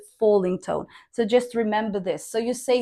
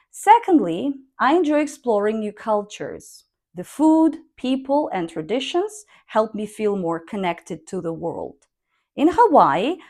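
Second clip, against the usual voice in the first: model reading. Shown as a demonstration. Teacher reading the whole paragraph for students, with clear intonation. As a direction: read aloud with rises on list words and falls at ends. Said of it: "let's try to read it".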